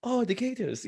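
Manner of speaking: high, put-on mock Asian accent; hammed-up Asian accent impression, laughing through it; terrible Asian accent. Imitating a Japanese fan in a terrible Asian accent. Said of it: "my terrible Asian accent".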